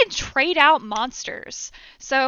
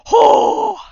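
surprised; 11 semitones higher, 15 dB louder than usual. Real, not acted. Boss comes at her in game.

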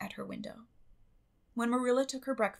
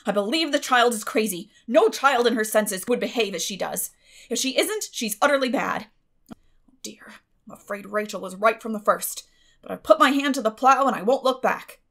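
louder, exasperated fretting; 10 dB louder than usual. A narrator's reading. Guardian frets leaving the room, exasperated. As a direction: grumble it out, fed up.

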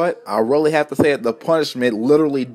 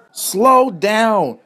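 high, moderately raised yell; angry shout; 8 semitones higher than usual. A narrator's reading. Driver yelling at Rodney to brake, angry shout. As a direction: call it out crossly, pitched up. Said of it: "shouted Rodney's driver angrily".

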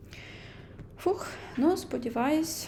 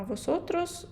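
«восотрос» lifted high with a rising tune; teacher warning learners about a rare form; raised for emphasis; 6 semitones higher than usual. Shown as a demonstration. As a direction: flag «восотрос» as the special case. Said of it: "маленька зірочка".

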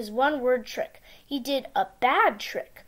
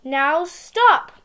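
calling out; 3 semitones higher, 5 dB louder, much slower than usual. Acted. Sam shouting at Gus.

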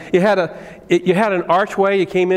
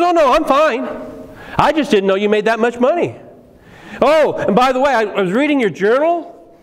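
nosy guest; 5 semitones higher than usual. Retold or imitated. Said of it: "He goes".

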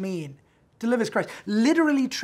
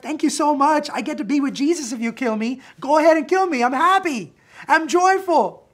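high, loud, almost gleeful; joyful defiance; 7 semitones higher, 7 dB louder than usual. Acted. Paul thanking the guards who threaten him, loudly delighted. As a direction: throw it back at them with delight.

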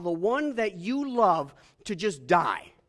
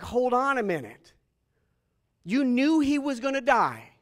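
loud, high-pitched challenge; indignant objection; 6 semitones higher, 7 dB louder than usual. Acted. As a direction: confront him in loud, acted disbelief. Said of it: "I would be like".

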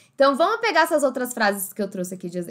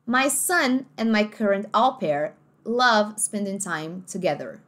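American accent; slower than usual. Shown as a demonstration. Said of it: "olha esse er, together".

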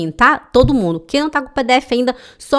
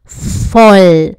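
"Verheimlich voll" dragged out, syllable by syllable; very slow model reading; 6 dB louder, much slower than usual. Shown as a demonstration. Teacher slowly models the phrase for students. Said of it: "Verheimlich voll".

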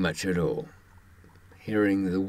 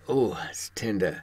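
whispered wince; 3 dB quieter than usual. Retold or imitated. Movie victim rubbing head.

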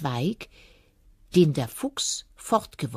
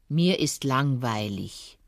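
slow, lower grumble; grumbling fox; 3 semitones lower, slower than usual. Acted. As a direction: drag it out bored. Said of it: "brummte der Fuchs". (brummiger Fuchs)

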